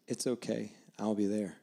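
soft, quiet words of comfort; tender, understated promise; gentle reassurance. Retold or imitated. Voices God answering human weakness.

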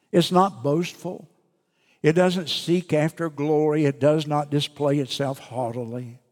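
measured, solemn Bible reading; scripture reading. Acted. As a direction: read the verses with weight. Reads scripture aloud.

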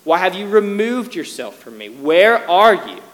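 pleading cry, building to a loud question; preacher's acted cry of lament. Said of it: "And David cries out".

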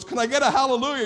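high, loud preacher's call to the crowd; worship leader call. Retold or imitated. Pastor imitating a worship leader calling on the church, high and loud. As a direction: belt it out like rallying a congregation. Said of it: "why in church when somebody goes".

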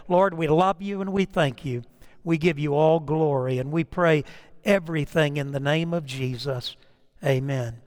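low, measured prayer voice; closing prayer. Acted. Pastor gives God glory in Jesus' name, prayerful. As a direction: pray it low and reverently.

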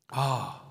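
easy exhaled "ah"; contented sigh. Shown as a demonstration. Preacher showing the inner peace God gives, contented sigh.

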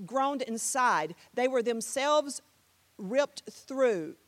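measured rhythmic verse; poem read aloud to a beat; spoken-word recital. Shown as a demonstration. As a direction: recite phrase by phrase with weighted pauses. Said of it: "this is a spoken word here".

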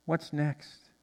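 ordinary delivery

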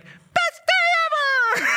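very high, loud, slow squeaky shout; thrilled kid. Retold or imitated. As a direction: burst in like an overjoyed child. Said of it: "he's like".

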